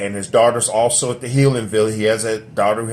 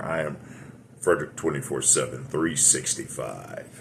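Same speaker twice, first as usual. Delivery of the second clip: low, soft late-night radio host voice; 8 semitones lower, 8 dB quieter than usual. Pretend. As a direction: drop it deep and quiet like a radio announcer. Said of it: "It's my radio voice".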